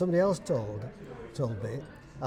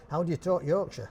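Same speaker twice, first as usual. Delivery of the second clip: laughing, higher and louder; amused echo; 5 semitones higher, 7 dB louder than usual. Real, not acted. Dialect speaker echoing interviewer's question, laughing. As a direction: repeat the question through real laughter.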